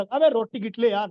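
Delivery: rough Haryanvi-style bluntness; coarse, offhand demand; crude, clumsy tone. Shown as a demonstration. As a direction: blurt it out like an uncouth buddy. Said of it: "अनाड़ी पने बोला".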